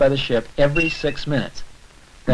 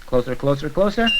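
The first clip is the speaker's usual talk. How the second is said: building suspense. Acted. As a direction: count it in like something is about to arrive. Flash approaching, counting suspense.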